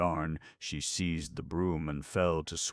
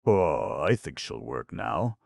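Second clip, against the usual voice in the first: smiling; 3 semitones higher, 8 dB louder than usual. A narrator's reading. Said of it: "smiled Peacer".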